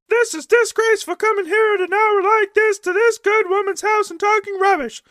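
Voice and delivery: neighbors scolding. Acted. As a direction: bawl him out from the window. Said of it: "started to bay at him".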